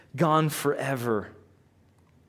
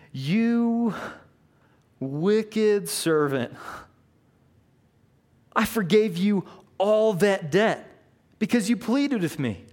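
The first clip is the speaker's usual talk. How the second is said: furious king; 4 semitones higher than usual. Retold or imitated. King confronts the unforgiving servant, mock furious. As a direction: rebuke him as an angry king.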